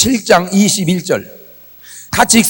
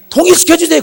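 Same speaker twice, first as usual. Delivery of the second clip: retold plea; 9 semitones higher, 4 dB louder, faster than usual. Re-enacts his pleading prayer.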